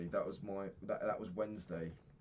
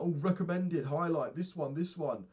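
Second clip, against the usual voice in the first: high, loud, eager salesy sing-song; pushy app prompt; 9 semitones higher, 8 dB louder than usual. Retold or imitated. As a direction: pitch the highlighted button like an overeager ad. Mocking the app's pushy prompt.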